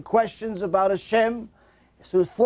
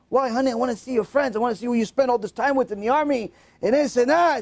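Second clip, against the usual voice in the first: eager mother; 4 semitones higher, faster than usual. Retold or imitated. Eager mother pleads with son.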